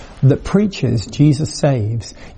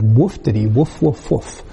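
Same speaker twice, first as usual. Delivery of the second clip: mock dog barks; 3 semitones lower than usual. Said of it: "the woman looked at Jesus and said".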